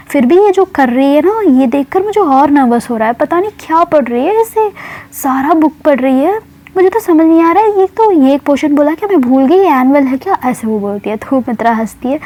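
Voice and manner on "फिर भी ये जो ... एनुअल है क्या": high, rattled panic over a friend's studying; anxious schoolgirl voice rising in pitch; nervous. Acted. Student before exam frets to friend, nervous and high. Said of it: "उसको बहुत nervous होता है".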